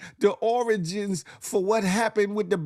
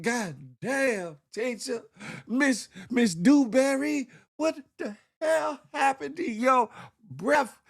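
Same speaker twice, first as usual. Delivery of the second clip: put-on shocked kid; 5 semitones higher than usual. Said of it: "little boy probably was like".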